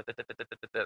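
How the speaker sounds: softly mumbled da da while searching; quiet filler syllables. Shown as a demonstration. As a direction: hum as if flipping cards. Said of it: "I'm thumbing through them".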